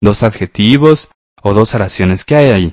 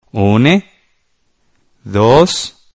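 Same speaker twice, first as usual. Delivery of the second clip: one word at a time, long pauses between; slow dictation. Shown as a demonstration. Teacher has pupils write on the line below, slow dictation.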